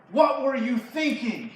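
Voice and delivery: loud, high, slow rebuke; angry scolding. Acted. Saul berating his son over David, loud angry scolding.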